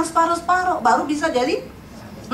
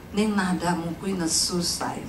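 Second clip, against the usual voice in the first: husband's complaint; 10 semitones lower, 8 dB quieter, slower than usual. Retold or imitated. Husband voiced in quarrel story.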